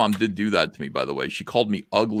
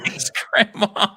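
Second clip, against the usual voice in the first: sarcastic thanks; 12 semitones higher, slower than usual. Pretend.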